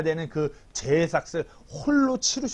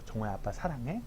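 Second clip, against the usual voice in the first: soft bedtime question; 6 semitones lower, 15 dB quieter than usual. Retold or imitated. Father asks son at bedtime, soft.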